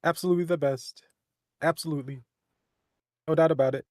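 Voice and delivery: lightly put-on presidential impression; Donald Trump. Vouching for friend's impression, in a light Trump voice. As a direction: boast in short, emphatic pronouncements. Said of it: "does a good Trump voice".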